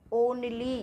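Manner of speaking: "Only" opening on a pure "oh" vowel; long O sound. Shown as a demonstration. Teacher answering how O-N-L-Y is said, clear long O. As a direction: say "Only" as "ohn-lee". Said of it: "ओ की मात्रा लगाना है".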